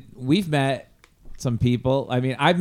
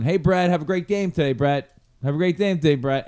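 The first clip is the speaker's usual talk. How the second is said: calling out; 5 semitones higher, 4 dB louder than usual. Retold or imitated. Fans calling out to quarterback.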